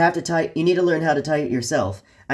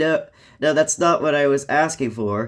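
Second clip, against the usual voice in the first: plain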